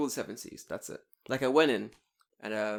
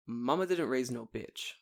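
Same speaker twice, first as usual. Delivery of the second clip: slow recited mantra. Retold or imitated. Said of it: "My mantra is".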